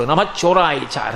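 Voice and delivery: "నమ చోరాయిచ" dropped low and dragged out; scornful echo. Acted. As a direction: throw his greeting back as a reproach. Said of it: "రండి రండి స్వాగతం అంటావేమిటి".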